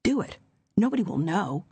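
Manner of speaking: a hint of a sly inner whisper; the alien voice tempting her; cold tempting voice. A narrator's reading. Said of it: "cold, alien voice".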